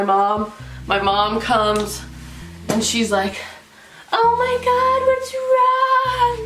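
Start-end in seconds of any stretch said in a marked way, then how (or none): 4.1-6.4 high, alarmed mother voice; worried mom. Retold or imitated. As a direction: play the shocked worried mom.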